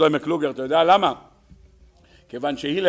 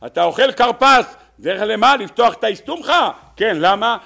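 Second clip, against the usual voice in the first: high, loud rhetorical questioning; incredulous exclaiming; 7 semitones higher, 7 dB louder than usual. Real, not acted. Rabbi challenging listeners about the karpas, incredulous exclaiming. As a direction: throw the questions out forcefully.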